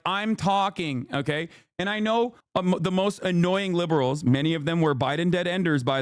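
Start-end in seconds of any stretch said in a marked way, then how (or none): 0.1-1.5 slow, clipped mock of Hillary; a hint of Hillary Clinton saying I'm talking; mock Hillary snap. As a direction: drawl it out like a curt Hillary. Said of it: "very Hillary Clinton style to be like".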